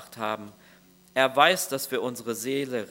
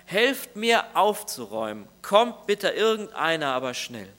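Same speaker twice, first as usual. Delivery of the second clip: urgent plea for help; 3 semitones higher than usual. Retold or imitated. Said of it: "rief er".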